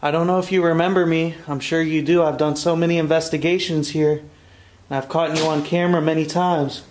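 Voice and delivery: loud, firm voice to the ghost; loud address to spirit. Real, not acted. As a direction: speak up so the spirit hears you.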